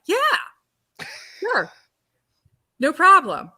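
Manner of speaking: high, over-eager mock nonchalance; faking cool. Actress bluffing her way through an audition, faking cool. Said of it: "I'm trying to be Miss, Miss Cool".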